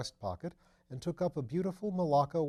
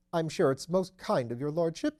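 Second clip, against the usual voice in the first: higher, louder fussy nervous voice; nervous little man; 6 semitones higher, 6 dB louder than usual. A narrator's reading. Nervous Phipps fussing to his lordship, higher and louder. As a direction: fret anxiously up in the voice.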